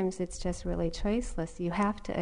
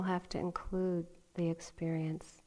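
whisper; 6 dB quieter than usual. Real, not acted.

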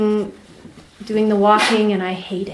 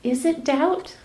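inner voice; 6 semitones higher than usual. Retold or imitated. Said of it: "this voice comes in".

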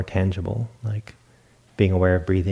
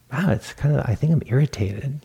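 higher-pitched, mildly amazed self-discovery; dawning realisation; 5 semitones higher than usual. Retold or imitated. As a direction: act out tentatively noticing your own feeling. Acting out first noticing an emotion.

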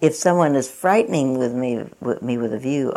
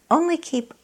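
Korean accent attempt; 13 semitones higher than usual. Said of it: "let me see if I can do it in his little accent".

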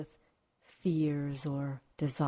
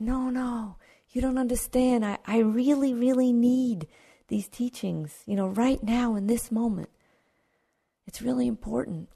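higher, louder insistent pleading; eager student insisting on teachings now, higher and louder; pleading seeker; 7 semitones higher, 3 dB louder than usual. Acted. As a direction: beg the teacher urgently, pitched up high. Pleading man voiced in story.

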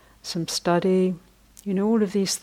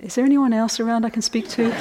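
laughing; 4 semitones higher, 4 dB louder, faster than usual. Retold or imitated. Seeker's punchline, laughing.

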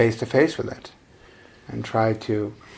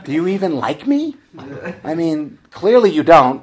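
louder and faster, jabbing accusations at herself; a hammed-up inner critic, louder and rushing; accusing inner critic; 6 semitones higher, 9 dB louder than usual. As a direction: let the nagging mind lay into you. Her unkind mind scolding her.

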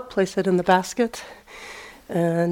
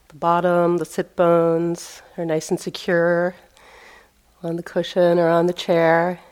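measured meditation-teacher voice with long pauses; phrase by phrase, leaving space between instructions; guided meditation. Real, not acted. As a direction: guide them into the sitting posture, unhurried. Leads a seated meditation.

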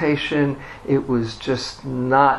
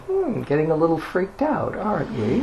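gentle, higher-pitched tease; twinkling teasing; 4 semitones higher, 5 dB quieter than usual. Retold or imitated. Guru's picture teasing a struggling meditator, twinkling. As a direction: tease knowingly in a lifted voice. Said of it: "with a little twinkle in his eye".

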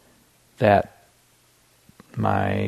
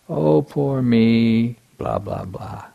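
whiny inner voice; 2 semitones higher, much slower than usual. Retold or imitated. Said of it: "I heard this voice in my mind saying".

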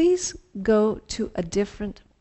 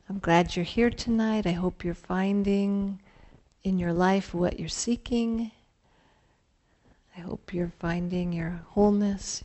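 guided meditation; slower than usual. Acted. Leads a mindful partner exercise.

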